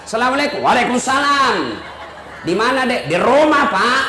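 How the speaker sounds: brisk, firm, no-nonsense answer. Shown as a demonstration. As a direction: answer the boss curtly and firmly. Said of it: "Coba kau tegas". (suara tegas kepada kepala dinas)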